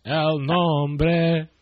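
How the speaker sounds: drawn-out mock Spanish; playful stretched Spanish vowels; mock Spanish accent. Co-host egging on the Mexican accent, mock Spanish accent.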